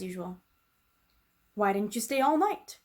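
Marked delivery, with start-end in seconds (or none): 1.5-2.8 sharp, louder mock snap; a touch of an irritable snap; snapped question. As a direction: cook snapping at the girl. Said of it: "she snapped".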